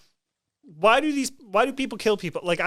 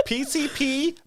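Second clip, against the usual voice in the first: laughing; 6 semitones higher, slower than usual. Real, not acted. Laughing while listing drugs.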